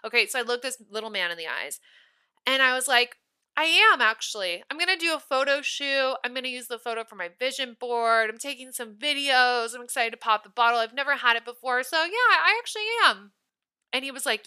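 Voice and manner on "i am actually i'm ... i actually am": sugary comeback with a rising finish; pointed sweetness. Retold or imitated. Firm reply to the rude clerk.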